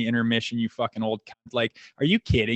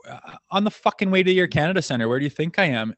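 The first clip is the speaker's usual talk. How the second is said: a touch of higher, fast irritated snapping back; exasperated retort; 4 semitones higher, faster than usual. Retold or imitated. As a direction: fire it back quickly, half annoyed. Exasperated reply to the trainer on the phone.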